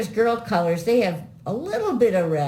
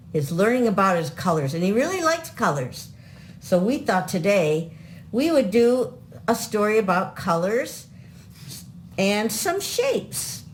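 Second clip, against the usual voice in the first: put-on kids show host; 3 semitones higher than usual. Grandparents host kids show intro.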